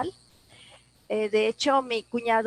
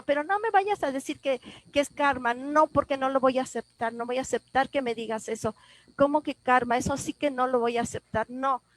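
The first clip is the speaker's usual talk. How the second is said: retold indignant refusal, pitched up at first; indignant protest; 2 semitones higher than usual. Grieving woman arguing with God over karma, indignant protest. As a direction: push back firmly, refusing the answer.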